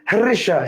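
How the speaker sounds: হ্রেশা said as "he-resha"; wrong sounded h. Shown as a demonstration. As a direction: put an audible "he" before the r in হ্রেশা. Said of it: "হ্রেশা না".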